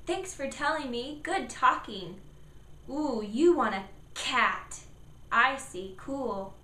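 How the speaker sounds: put-on bright encouraging praise to a child; praising parent. Shown as a demonstration. Parent praising child's attempt, encouraging. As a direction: warmly praise the kid for talking. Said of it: "but you can say".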